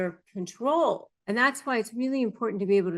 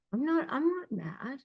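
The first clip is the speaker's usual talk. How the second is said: higher, softer, tight mock insistence; higher and softer, a put-on voice of a partner in denial; 5 semitones higher, 5 dB quieter than usual. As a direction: imitate someone who is clearly mad saying they aren't. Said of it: "they'll say".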